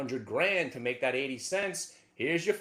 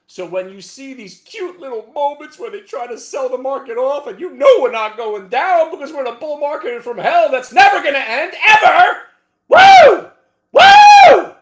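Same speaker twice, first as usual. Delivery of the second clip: much louder and higher, building to yelled woos; laughing hype that builds to whooping cheers; hyped shouting; 11 semitones higher, 21 dB louder than usual. Real, not acted. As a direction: whip the crowd into a frenzy. Hyped bull market cheering.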